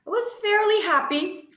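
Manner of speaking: high, giggly ironic happy; a wry laugh at her own irony. Real, not acted. War childhood, nervous laugh.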